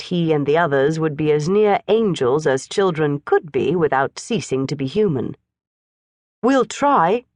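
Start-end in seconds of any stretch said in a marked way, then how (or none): 6.4-7.2 earnest. A narrator's reading. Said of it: "he said earnestly".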